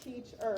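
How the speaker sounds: "Teacher" in two beats, teach-er; measured syllable demo of "Teacher". Shown as a demonstration. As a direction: split "Teacher" as if clapping each syllable. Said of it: "I want syllables".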